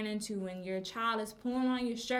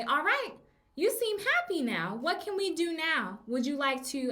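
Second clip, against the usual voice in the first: put-on higher, bright praise voice to a calmed child; cheerful teacher; 5 semitones higher than usual. Teacher to a child who has calmed down, upbeat and higher. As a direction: lift it up, upbeat and encouraging.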